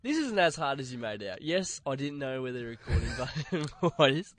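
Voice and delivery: nasal, away from the microphone; blocked-nose sound from a cold. Real, not acted. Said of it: "'Cause I sound so nasally".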